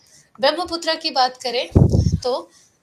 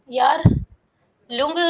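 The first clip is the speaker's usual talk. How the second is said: stretched out with cough; 6 dB louder, much slower than usual. Shown as a demonstration. Teacher stretching the name, coughing.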